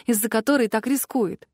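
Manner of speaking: plain reading voice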